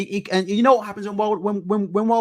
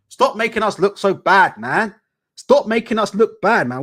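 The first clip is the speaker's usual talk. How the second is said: louder, pleading stop it, man; exasperated loud rant; 2 semitones higher, 6 dB louder than usual. Real, not acted. Streamer scolding fighters on TV, loud and exasperated. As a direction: scold them loudly, fed up. Ranting at fighter's red do-rag.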